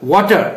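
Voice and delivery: "water" with a rounded aw vowel; WAW-ter. Shown as a demonstration. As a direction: repeat "water" opening on waw. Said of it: "not water".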